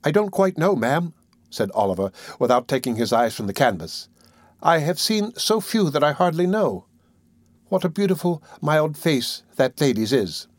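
put-on a timid sick child, wondering; boy voice. Oliver to the old lady about the portrait, lightly voiced boy.

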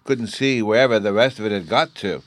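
put-on high, eager child voice; little boy Bruno. A narrator's reading. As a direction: chatter like an excited small boy.

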